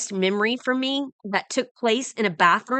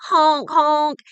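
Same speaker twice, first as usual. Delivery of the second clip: louder honk imitating a train; imitated train horn; 6 semitones higher, 4 dB louder than usual. Woman imitating the train bearing down, loud honk. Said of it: "and it was loud".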